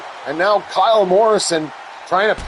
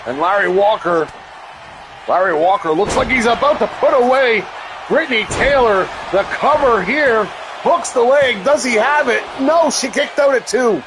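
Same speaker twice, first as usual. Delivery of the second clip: rising excitement on the near fall; wrestling commentator; 6 semitones higher than usual. Acted. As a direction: build the hype toward the pin. Near fall in tag match.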